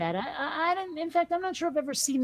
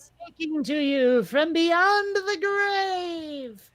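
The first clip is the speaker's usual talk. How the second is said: higher, slow, wailing voice from beyond the grave; ghost voice; 5 semitones higher, much slower than usual. Pretend. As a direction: moan it like a spooky ghost. Asked why she sounds like God.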